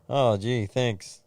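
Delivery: dry sarcastic thanks; a lightly voiced sarcastic friend; mild mock sarcasm, flat thanks. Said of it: "Why is he being so sarcastic?".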